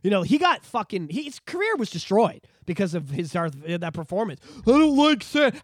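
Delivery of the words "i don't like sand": mock Anakin line. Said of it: "How many people probably yelled".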